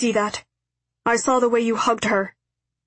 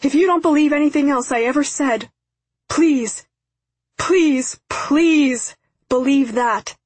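high, loud, desperate apology; screaming plea; 6 semitones higher, 5 dB louder than usual. A narrator's reading. Father apologises to daughter up the hill, screaming. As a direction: cry out to her, begging to be believed. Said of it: "again he began screaming".

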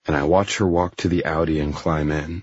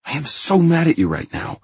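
high-pitched angry snap; snapping; 12 semitones higher, 3 dB louder than usual. A narrator's reading. Christian angry with Anna, snapping at her. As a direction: snap it out in exasperation. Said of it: "I snap".

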